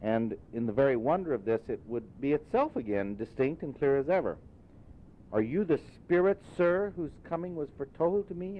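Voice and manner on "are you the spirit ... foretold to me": put-on high, wondering old Scrooge; old miser meeting a ghost, awed; Scrooge asking. A narrator's reading. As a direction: ask the spirit, awed and unsure. Scrooge voiced in read story.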